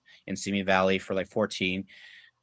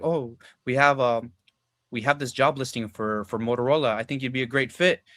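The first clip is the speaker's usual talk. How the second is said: put-on Indian accent; 2 semitones higher than usual. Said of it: "sounds like, uh, Indian".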